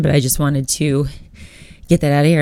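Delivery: breathless from talking a lot; out of breath. Real, not acted. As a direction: speak short of breath, air running out. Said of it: "I'm out of breath just from talking".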